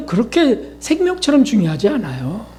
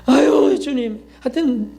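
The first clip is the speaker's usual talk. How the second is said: imitating a fretful self-scolder, higher; fretting aloud at oneself, pitched up; self-scolding grumble; 5 semitones higher than usual. Preacher mimics a person scolding themselves, higher fretful grumble. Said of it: "막 이렇게 그런다고요".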